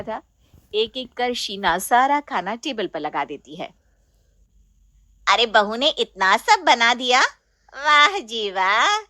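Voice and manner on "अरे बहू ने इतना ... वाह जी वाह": mock praise. Chachi praising.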